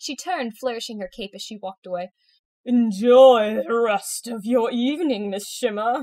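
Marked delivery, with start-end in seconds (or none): 2.7-6.0 booming, loud, drawn-out spooky ghoulish voice. A caped character says farewell while walking away on Halloween: ghoulish voice. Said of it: "she said in a ghoulish voice".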